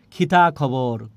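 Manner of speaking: খিতা খবর with airy খ on both words; Sylheti pronunciation. Retold or imitated. Teacher quoting Sylhet people, খিতা খবর with kh for k. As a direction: aspirate each k in খিতা খবর. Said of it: "সিলেটের মানুষ কি উচ্চারণ করে?".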